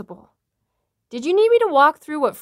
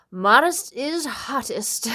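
whispering; slower than usual. Acted. Whispered aside.

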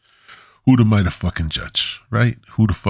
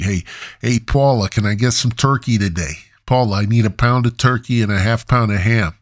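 slightly raised, chatty customer voice; lightly voiced deli customer; 3 semitones higher than usual. Customer asking Paula for sliced turkey and ham, lightly put-on chatty voice. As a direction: call over the counter and order, lightly acted.

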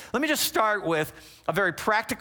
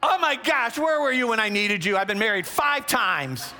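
excited woman; 3 semitones higher than usual. Retold or imitated. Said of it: "She goes".

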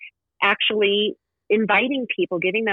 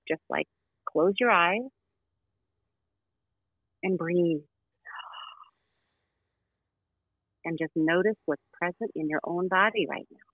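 soft spa whisper; 3 dB quieter than usual. Acted. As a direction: ease them into the breath, hushed. Leads a breathing meditation.

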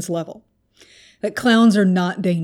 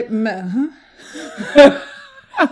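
sobbing reply; 2 semitones higher, much slower than usual. Retold or imitated. Retelling crying to the cop who pulled her over, sobbing. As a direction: blubber a yes through tears. Weeping answer to cop, retold.

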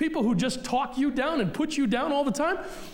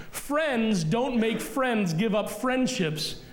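"Friends don't make friends" said again very slowly and deliberately; slow repeat; slower than usual. Shown as a demonstration. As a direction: spell the saying out word by word. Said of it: "Did you get that?".

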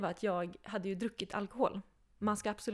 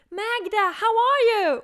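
high, loud, slow cheery greeting; mock German woman calling hello; 13 semitones higher, 13 dB louder, slower than usual. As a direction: sing out the hello like an overjoyed stranger. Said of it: "en tysk kvinna".

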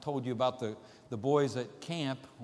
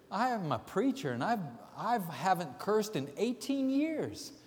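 earnest protest; 5 semitones higher than usual. Retold or imitated. Preacher protests in the joke.

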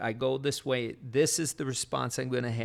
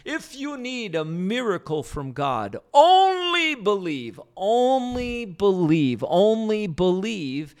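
quoting Bonnke; 6 semitones higher, 6 dB louder than usual. Retold or imitated. Preacher quoting Reinhard Bonnke to listeners, loud and high. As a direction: ring out only believe like a revival call. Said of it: "I wish I could say it in the German brogue that he had".

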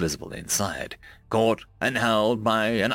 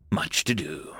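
soft whispered echo; 6 semitones lower, 4 dB quieter than usual. A narrator's reading. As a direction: whisper it to yourself. Repeated musing, fading to whisper.

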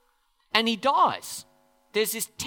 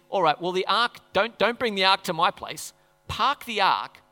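David. Retold or imitated. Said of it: "So then he says".

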